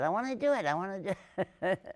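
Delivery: high, excited imitation of an eager girl. Daughter begging to be in the film, retold eagerly. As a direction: pipe up high, retelling her eagerness.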